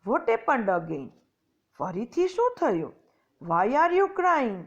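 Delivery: fairy asking the weeping tree kindly; a touch of motherly concern; concerned question. Acted. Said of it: "said વનદેવી".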